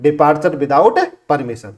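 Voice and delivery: each word spaced out slowly for students; slow, deliberate teacher's recap; slow dictation. Shown as a demonstration. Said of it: "French leave".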